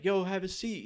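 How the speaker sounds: high, loud Brooklyn voice; thick Brooklyn accent. Retold or imitated. Train driver seating the rescued kid, thick Brooklyn accent. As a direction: Brooklyn motorman calling out an order. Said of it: "thick Brooklyn accent".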